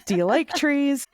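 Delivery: high hammed-up pirate. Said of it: "did she say it like a pirate".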